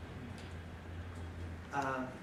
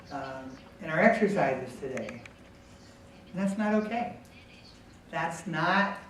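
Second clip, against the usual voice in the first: calm, positive correction. Shown as a demonstration. Coach showing how to correct a player calmly and positively. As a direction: correct him gently without raising your voice. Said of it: "in a calm, positive way".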